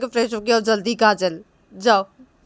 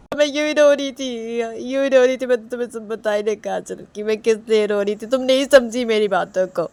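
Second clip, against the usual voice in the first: acted tearful reproach; 6 semitones higher, 14 dB louder than usual. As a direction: reproach her as if weeping. Acted Reshma tearfully reproaching Kajal.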